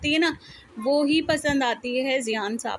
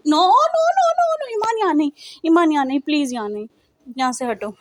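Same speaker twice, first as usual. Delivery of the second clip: mock scolding; 4 dB louder than usual. Mother's scolding of the kids.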